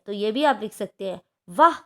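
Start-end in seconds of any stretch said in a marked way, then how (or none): 1.5-1.8 delighted wow. Shown as a demonstration. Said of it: "हर्ष, शोक, आश्चर्य".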